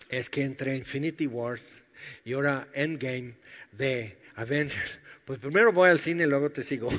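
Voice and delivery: offhand, laughing movie-fan excuse; a lightly voiced casual excuse, laughing at the end; flippant excuse. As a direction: shrug him off for a cinema trip. Imagined flippant excuse to Jesus.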